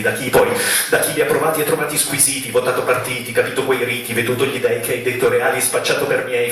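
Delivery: steady, rhythmic recital running on without pauses; spoken-word poem. Acted. Poet listing things never done to papà, rhythmic recital. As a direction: reel off the list in an even beat.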